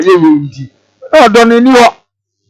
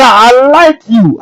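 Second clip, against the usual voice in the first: mock sweet talk; much slower than usual. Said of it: "It is all part and parcel, brother".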